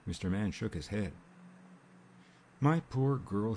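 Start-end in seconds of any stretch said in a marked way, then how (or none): 2.6-3.5 sympathetic. A narrator's reading. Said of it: "he said sympathetically".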